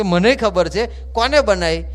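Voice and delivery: slow, loud retold rebuke; mock stern scolding.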